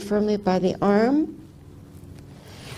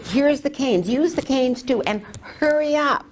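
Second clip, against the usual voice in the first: mildly urgent, higher-pitched retold plea; brisk re-enacted urging; urging him on; 4 semitones higher than usual. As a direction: hurry him along, voice lifted. Re-enacts hurrying her husband along.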